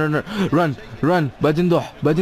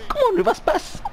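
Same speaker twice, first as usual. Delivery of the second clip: frustrated. Real, not acted. Teammate missed pass.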